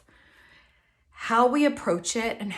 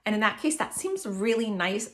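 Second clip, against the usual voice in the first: usual speaking voice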